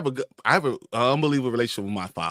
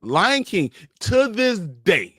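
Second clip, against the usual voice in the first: emphatic confession; 5 semitones higher, much slower than usual. Real, not acted. Mock-emotional confession about crying.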